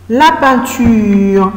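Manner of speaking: "la peinture" stretched out very slowly; slow model word. Shown as a demonstration. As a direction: draw out "la peinture" so they can write it. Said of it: "on va dire". ("la peinture" très lentement)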